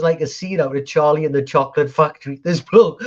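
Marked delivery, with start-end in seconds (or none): 2.4-3.0 high, loud storytelling with a laugh breaking in; raised, gleeful retelling; animated comic climax. Retold or imitated. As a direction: build to the punchline, high and amused.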